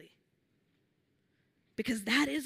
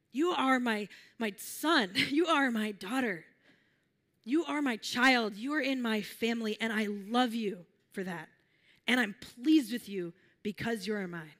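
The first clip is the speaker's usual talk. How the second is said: lightly voiced God, lingering between phrases; divine voice; 2 semitones lower than usual. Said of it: "and this voice says to you".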